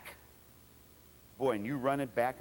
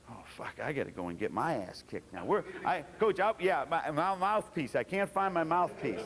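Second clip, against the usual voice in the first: scared backup. Retold or imitated. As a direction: stall nervously, not wanting to go in.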